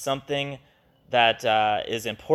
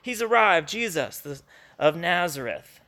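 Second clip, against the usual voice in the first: higher, eager, then settling down; excited announcement; 8 semitones higher than usual. Retold or imitated. Philip telling Nathanael, excited. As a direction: tell it like big news. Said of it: "He's going".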